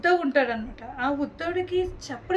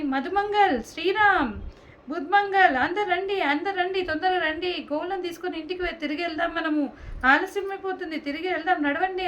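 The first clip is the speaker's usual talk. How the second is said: calling out to friends; 3 semitones higher than usual. Acted. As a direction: call the friends to head home. Krishna calls friends home. (ఎత్తైన స్వరంతో స్నేహితులను పిలవడం)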